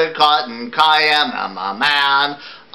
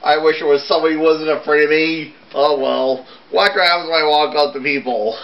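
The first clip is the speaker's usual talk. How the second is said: a ghoul's lament, pitched higher; a sad little ghoul, sung-spoken and higher; lightly voiced ghoul; 4 semitones higher than usual. Ghoul telling everyone he scares people, lightly voiced and higher.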